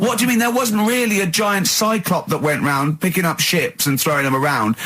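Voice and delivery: high, baffled challenge, slowing down; incredulous. Real, not acted. Arguing cyclops isn't history.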